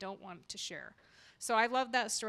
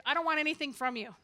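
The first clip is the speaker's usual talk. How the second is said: fast, higher, louder mock snap; imitating the vendor brushing off her sister; mock rude refusal; 4 semitones higher, 4 dB louder, faster than usual. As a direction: toss it back curtly like the cranky neighbor. Retold quarrel with rude vendor.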